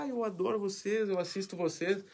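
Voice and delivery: imitated fan gushing, high-pitched. Driver recognizing the TV reporter, imitated excited gushing. Fã reconhece o repórter no carro.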